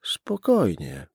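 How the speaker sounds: slow, a touch of tremor; trembling voice. Acted. Policeman calming the armed man, voice slightly trembling. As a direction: try to sound calm while shaking. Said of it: "Słyszał, że jego głos drży".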